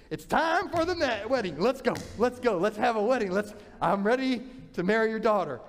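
can't wait another day; impatient groom. Acted. Jacob demands the wedding.

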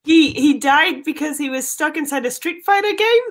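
Aussie detective working it out; put-on Australian accent, questioning. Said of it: "time in that Australian accent".

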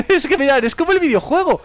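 high, loud excited squeal after a laugh; giddy amazement. Real, not acted. Gamer showing viewers it matches the videogame, giddy. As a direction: gush to viewers in sheer amazement.

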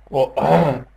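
interrupted by a hiccup; words broken off by a sudden hiccup. Real, not acted. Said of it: "mi è venuto il singhiozzo".

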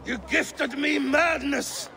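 betrayed fury breaking through; bitter, wounded accusation; hurt and angry. Acted. King learns he was poisoned.

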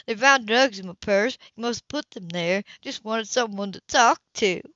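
lightly voiced pleading woman; whiny tearful sister.

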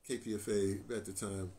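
ordinary delivery

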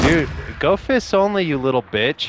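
yelling insult at opponent; loud taunting shout. Real, not acted.

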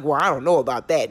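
a touch of mock cluelessness; mock evasive reply. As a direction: imitate someone dodging with a low mumbly shrug. Mimics addressee's evasive excuse.

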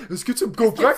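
high, loud mock French girl; hammed-up feminine French voice; exaggerated feminine French girl. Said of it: "like, feminine, with, like, really weird".

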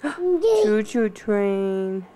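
gasp, then slow, loud and drawn out; excited gasp. Real, not acted. Shows baby the train picture.

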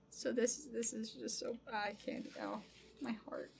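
soft, halting, lost for words; real choked-up tenderness; overcome with emotion. Real, not acted. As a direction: trail into a hushed, touched murmur. Overcome by a meaningful gift.

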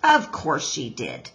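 low-pitched grumble to oneself; muttered. Acted. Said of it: "Mister Beaver muttered to himself".

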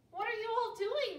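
high, loud eager question; curious cry. A narrator's reading. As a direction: call out, bursting to know. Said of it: "they cried".

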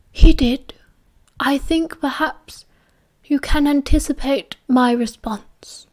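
put-on slow old headmaster fading to a whisper; lightly voiced old wizard, dropping to a hush; Dumbledore's voice.

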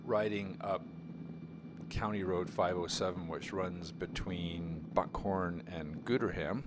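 muffled helmet mic with wind noise; talking inside a motorcycle helmet while riding. Real, not acted. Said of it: "wind noise coming into the microphone inside the helmet".

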